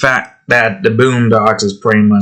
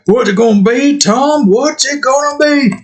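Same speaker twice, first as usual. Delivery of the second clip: higher, punchier version of the taunt; corrected Fleece Johnson; 13 semitones higher than usual. Retold or imitated. Redoing Fleece Johnson's question to Tom, higher. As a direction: redo it, a bit rougher and quicker. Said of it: "more like a".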